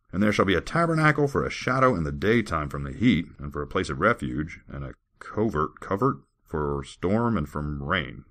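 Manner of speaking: declaimed verse with lifted key words; formal recitation, settling toward the end; scripture reading. Acted. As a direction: read it out like holy writ. Reads scripture aloud.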